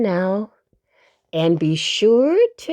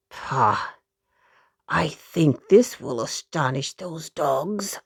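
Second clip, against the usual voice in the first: Uncle Wiggily voice; 7 semitones lower, 4 dB quieter, slower than usual. Acted.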